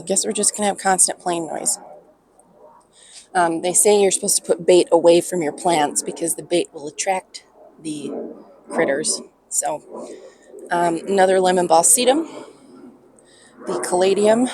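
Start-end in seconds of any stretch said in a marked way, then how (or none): 3.3-9.2 louder restart. Real, not acted. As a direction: say it again louder, over the noise. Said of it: "restarts the sentence louder".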